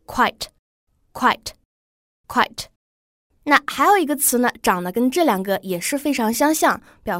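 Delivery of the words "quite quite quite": quite slowly as one syllable for students to copy. Shown as a demonstration. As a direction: model quite as a single beat. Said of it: "第二个则是quite". (慢速领读quite)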